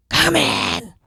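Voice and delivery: high, loud, raspy yell; raspy scream. Retold or imitated. Client yells to the organizer at the door, raspy scream. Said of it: "a raspy voice screaming".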